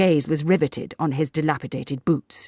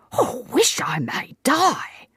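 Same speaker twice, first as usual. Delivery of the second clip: shocked protest; 10 semitones higher, much slower than usual. A narrator's reading.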